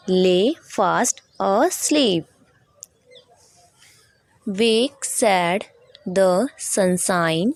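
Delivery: unhurried teacher reciting verse, pausing between phrases; poem recitation. Shown as a demonstration. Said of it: "I am going to recite this poem".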